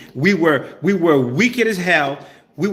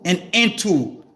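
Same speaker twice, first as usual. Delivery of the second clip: measured verse reading with pauses; scripture reading. Acted. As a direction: read deliberately, phrase by phrase. Reads scripture aloud to listeners.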